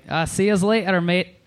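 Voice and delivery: light stab at a Scottish accent; attempted Scottish accent. Shown as a demonstration. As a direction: try a casual Scottish goodbye. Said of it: "Scottish is really hard".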